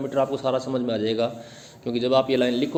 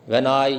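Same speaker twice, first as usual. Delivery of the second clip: "When I" as one pair, stress on I; weak "When", strong "I"; iambic foot. Shown as a demonstration. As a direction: set "When I" apart as a da-DUM beat. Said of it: "पहला जोड़ा".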